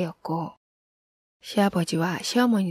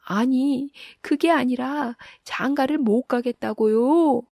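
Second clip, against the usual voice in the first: high, loud protest shouted back; loud retort; 7 semitones higher, 5 dB louder, slower than usual. A narrator's reading. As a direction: yell back while being chased. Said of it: "큰 소리로 대꾸하였다".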